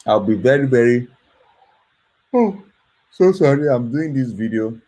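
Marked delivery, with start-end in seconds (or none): 2.3-4.8 sleepy, yawning through words. Real, not acted. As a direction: talk through a yawn. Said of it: "So that's why I'm yawning".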